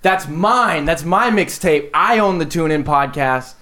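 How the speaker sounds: hammed-up protest, easing toward the end; mock indignation. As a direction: stake your claim in playful outrage. Indignant owner confronts the spider in story.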